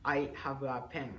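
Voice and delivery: katakana-style English; flat Japanese-accented English. Shown as a demonstration. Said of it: "which is in Japanese accent".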